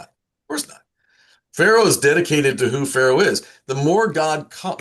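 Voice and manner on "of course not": of course not jumped way up high; comic high-pitched denial; squeaky high. Shown as a demonstration.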